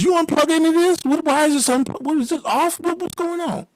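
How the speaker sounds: high, alarmed demands; frantic questioning. Retold or imitated. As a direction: grill him in a high pitch. Friend interrogates roommate about clocks.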